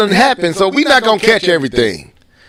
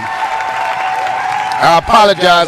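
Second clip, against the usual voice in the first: chewing while talking; 3 semitones lower than usual. Real, not acted. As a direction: mouth full of pizza. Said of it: "trying to eat pizza at the same time".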